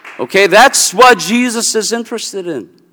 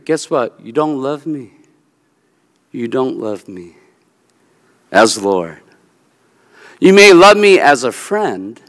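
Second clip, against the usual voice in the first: gentle Jesus; 5 semitones lower than usual. Acted. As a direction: speak as Jesus correcting a friend tenderly. Voicing Jesus gently rebuking.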